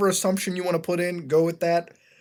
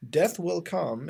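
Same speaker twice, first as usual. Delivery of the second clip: slow, dragged-out doom line; mock ominous read; much slower than usual. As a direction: intone it like a horror trailer. Same caption read again.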